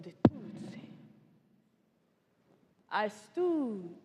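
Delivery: measured, dramatic survivor testimony; genocide survivor. Acted. Survivor recounting childhood to an audience, grave storytelling. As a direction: tell it as a painful personal testimony.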